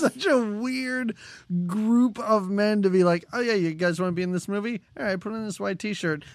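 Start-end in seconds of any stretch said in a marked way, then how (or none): 3.3-6.2 quick, offhand patter; lightly voiced casual recruiter. Imagined filmmaker signing up extras in jeans, offhand and hurried. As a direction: breezily wave off every worry, lightly acted. Imagined casting of the hype men.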